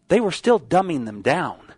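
down pressed at the end; stress on down. Shown as a demonstration. Preacher warning homeschooling parents, stress on down. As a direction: land on the word down. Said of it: "With the emphasis on the word down".

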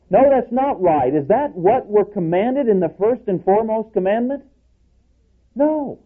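high, emphatic preacher's denial; rising to full preaching force; fervent. Real, not acted. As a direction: cry out the correction with fire. Preacher rejects own claim.

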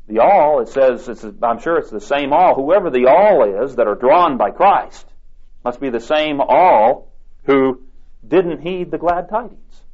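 ordinary talk

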